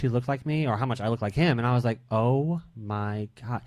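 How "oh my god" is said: slow, drawn-out "oh my God"; stunned shock. Retold or imitated. Guest recalls first seeing their father, in stunned shock. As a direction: recall being stunned, stretching each word slowly. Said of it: "It scared the living hell out".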